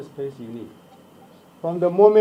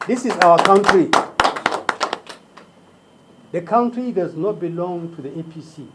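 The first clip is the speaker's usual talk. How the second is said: roaring rallying speech; 4 dB louder than usual. Real, not acted. Campaign rally speech to supporters.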